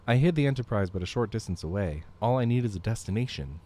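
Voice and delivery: put-on Canadian accent. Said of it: "I can use a regular Canadian accent for him".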